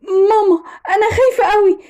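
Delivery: cling to mum, badly scared; distraught child. Rescued daughter to her mother, frightened. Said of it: "البنت كانت منهارة وقالت".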